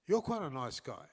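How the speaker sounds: lightly imitated genteel British accent; a hint of a British lady's accent; lovely British accent. Star conceding to the reporter he's nice, light British accent. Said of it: "she said in a lovely British accent".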